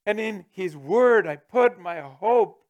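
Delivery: solemn proclamation; slow declaration. Real, not acted. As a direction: declare each word as a vow. Preacher declares scripture slowly.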